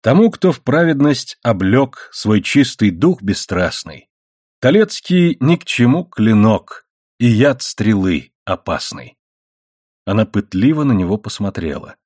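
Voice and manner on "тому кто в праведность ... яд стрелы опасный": measured verse recitation; цитирование стихов. A narrator's reading. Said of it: "и процитировал". (размеренно декламируя стихи)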